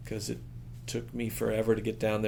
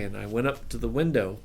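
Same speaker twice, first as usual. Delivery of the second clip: ordinary talk, nothing marked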